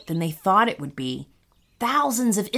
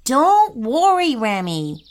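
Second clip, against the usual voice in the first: gentle; 3 semitones higher, 4 dB louder than usual. Acted. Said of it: "said Keon gently".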